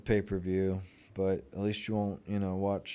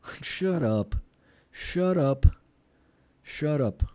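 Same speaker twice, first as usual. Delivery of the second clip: higher, louder shut up building; exasperated shut up; 6 semitones higher, 5 dB louder, slower than usual. Real, not acted. Telling the pundits to shut up, higher and louder. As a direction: snap it at the pundits over and over.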